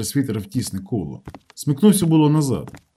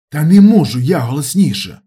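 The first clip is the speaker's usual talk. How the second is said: usual speaking voice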